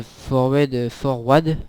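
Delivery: English word "forward" in a halting French accent; real French accent on the English. Real, not acted. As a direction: say "forward" with a clumsy French accent, trying it twice. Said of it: "mon accent anglais est très très bien".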